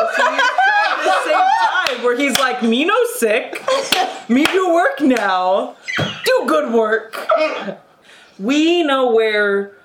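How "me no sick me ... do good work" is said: slow, halting caveman-simple imitation; Kevin from The Office. Player mocks the halting talk with a sitcom imitation, slow and simple. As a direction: imitate a simple man straining to talk, slowly. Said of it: "It's just Kevin from The Office".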